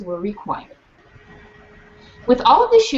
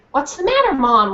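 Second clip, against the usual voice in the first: put-on innocent child; 4 semitones higher than usual.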